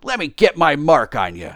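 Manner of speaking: loud, high, blustering tramp; riled tramp calling out loudly; indignant tramp. Acted. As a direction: challenge an unseen heckler, pitch leaping.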